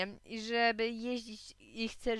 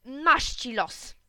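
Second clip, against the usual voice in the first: slow, drawn-out pretend grumble; mock weary sigh; 4 semitones higher, 7 dB louder, much slower than usual. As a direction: say it like a bored husband, slowly. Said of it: "udajesz, że zamykasz gazetę i mówisz". (powoli, na niby zrezygnowany)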